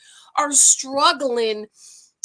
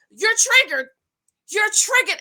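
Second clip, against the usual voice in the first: higher, mocking repeat of the taunt; imitating Crystal; 9 semitones higher, 4 dB louder than usual. Mimicking Crystal taunting Robin with a mock needling voice. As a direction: parrot her needling chant. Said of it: "I started to".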